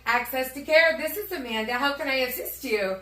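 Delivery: polite phone-greeting voice; customer service voice. Retold or imitated. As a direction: answer like a cheerful receptionist. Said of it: "That's your customer service voice".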